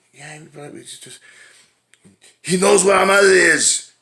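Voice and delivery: high, loud squeaky mock Vincent; mock Danny DeVito whine. Retelling Twins, Vincent pleads about their mother, high mock whine. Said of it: "he's like".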